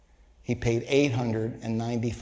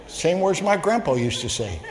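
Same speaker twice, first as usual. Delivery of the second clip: laughing. Real, not acted. Still laughing after joke.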